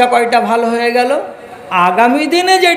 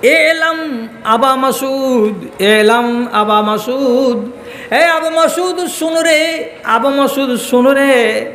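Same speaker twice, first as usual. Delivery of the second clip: drawn-out call of a name; calling out from behind; 2 semitones higher, slower than usual. Acted. Prophet calls to the angry companion from behind, calling out. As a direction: call after him in long, slow syllables. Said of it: "পিছন দিক থেকে আওয়াজ দিয়ে বলছেন".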